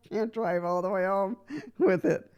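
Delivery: chuckling through the words; light laughter breaking in; laughing. Real, not acted. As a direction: laugh as you say it, amused. Joking about driving chair home.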